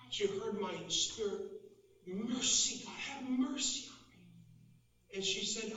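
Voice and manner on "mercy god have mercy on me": higher-pitched retold plea; mild pleading cry to God; crying out for mercy. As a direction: imitate a desperate prayer, without shouting. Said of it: "You were crying out for mercy".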